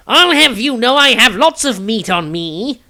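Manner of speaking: spluttering. A narrator's reading. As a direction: splutter in wounded pride. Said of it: "Tobias spluttered".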